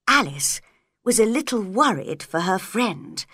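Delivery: ordinary delivery, nothing marked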